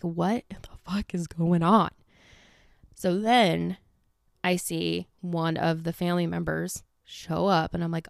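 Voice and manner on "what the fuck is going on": slow hushed whisper; whispered panic. Retold or imitated. Spying on the police, a slow panicked whisper. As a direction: breathe it out in alarm.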